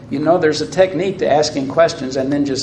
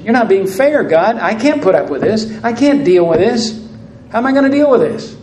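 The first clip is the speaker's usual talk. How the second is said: whining complaint; 4 semitones higher, faster than usual. Acted. Preacher voicing Cain's whining complaint.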